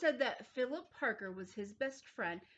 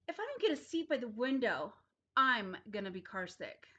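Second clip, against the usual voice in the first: whiny threat; 4 dB louder, faster than usual. Acted. Child threatens in carpool.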